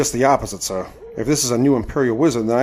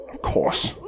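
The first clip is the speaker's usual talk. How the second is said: whispered realization; 5 dB quieter than usual. Acted. Sniper spotting target alone.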